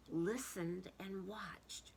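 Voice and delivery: slow hushed whisper. A narrator's reading. Narrator whispers while they wait for the egg. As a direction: hold your breath and listen. Quiet watching in story.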